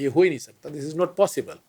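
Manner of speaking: mock-outraged "this is not possible"; retold angry disbelief. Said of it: "بڑے غصے سے کہتے ہیں".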